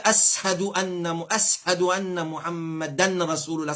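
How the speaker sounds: faulty "ashadu", s-h instead of sh; mispronounced adhan. Shown as a demonstration. Teacher showing what callers must not say, mispronounced "ashadu". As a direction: say "ashadu" with a plain s in place of sh. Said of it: "Nous pas qu'à dire".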